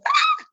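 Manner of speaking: sudden high, loud "Ah!"; startled shout at a dog; yell. Retold or imitated. Woman turns on growling pit bull, high startled yell. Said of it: "I just yell at her".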